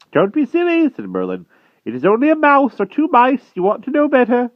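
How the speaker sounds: put-on high, loud, indignant old wizard; peevish wizard dismissing the giants' trouble; fussy old magician. A narrator's reading. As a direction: scold like a cross old sorcerer. Merlin bluffing.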